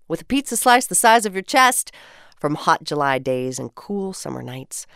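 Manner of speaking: measured, lyrical poem recital; poem reading. Acted. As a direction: read each line like a treasured memory. Reads community poem aloud.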